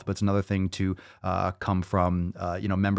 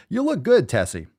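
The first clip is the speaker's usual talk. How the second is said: high, excited compliment; excited praise; 8 semitones higher than usual. Acted. Host hyping up Tessie's crop top photo, gushing. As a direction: gush over the crop top.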